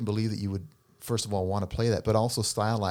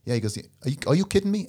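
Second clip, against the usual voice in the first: high, loud mock mobster outrage; mafia guy routine; 7 semitones higher, 4 dB louder than usual. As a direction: act incredulous as a put-on tough guy. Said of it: "he does this whole routine".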